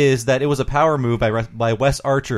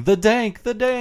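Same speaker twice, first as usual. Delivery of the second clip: Carl impression; 6 semitones higher than usual. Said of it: "I do the, uh, Carl thing".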